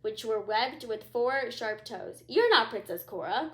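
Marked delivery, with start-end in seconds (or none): 2.3-3.5 crying out. Acted. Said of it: "cried the queen".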